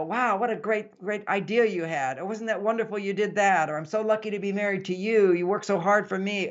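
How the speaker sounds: admiring praise. Acted. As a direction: play a wife gushing over her husband. Models a wife praising her husband.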